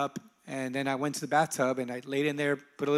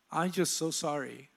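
remorseful apology; 5 dB quieter than usual. Retold or imitated. Mother apologizing to son through bathroom door, softly remorseful. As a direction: quietly voice a parent's heartfelt sorry.

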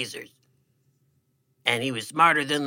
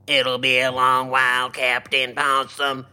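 robot voice. Acted. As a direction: speak like a calm robot. Robot character speaks.

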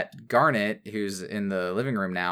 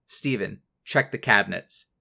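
mildly pointed, level retold command; pointed instruction; 3 semitones lower than usual. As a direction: quote an abrupt, pointed order with restraint. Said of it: "very suddenly, very pointedly says".

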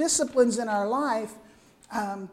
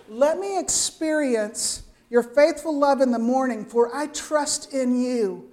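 heartfelt reading; 3 dB louder than usual. Shown as a demonstration. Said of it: "Listen to the emotion in that voice".

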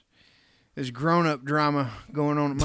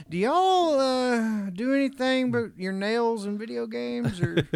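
exasperated parent; 5 semitones higher than usual. Retold or imitated. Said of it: "I'm just like".

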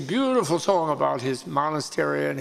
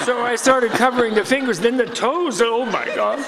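higher, amused, laughing through the excuse; laughing confession; 3 semitones higher than usual. Retold or imitated. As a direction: confess sheepishly, chuckling. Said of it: "and then he says".

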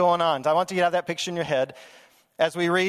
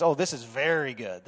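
a touch lower, savoring oh; delighted, savoring; 4 semitones lower than usual. Retold or imitated. God admiring his creation, gently delighted. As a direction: linger on oh as if admiring. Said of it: "he says".

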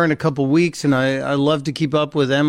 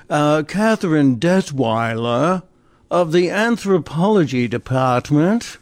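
snooty. Pretend. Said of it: "Doesn't that sound like a snooty anthropology professor".

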